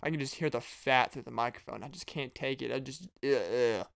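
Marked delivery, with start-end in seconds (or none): 2.7-3.9 slow groan of disgust. Real, not acted. Podcaster hearing smacking, disgusted groan. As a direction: let the ugh drag with revulsion. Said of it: "Disgust my ears".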